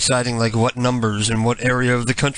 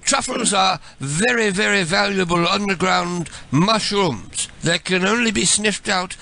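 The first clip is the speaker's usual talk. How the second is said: put-on British accent, stretched words; 4 semitones higher than usual. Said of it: "switch to my British voice".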